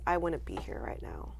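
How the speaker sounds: hushed whisper, moved; touched, whispering the last words. Real, not acted. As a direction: let it drop to a whisper. Emotional thanks to the fans.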